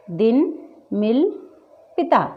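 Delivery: short, light i in "दिन", "मिल", "पिता". Shown as a demonstration. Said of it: "छोटी ई की मात्रा पर ज़्यादा वज़न नहीं". ("दिन, मिल, पिता" में छोटी इ, बिना वज़न)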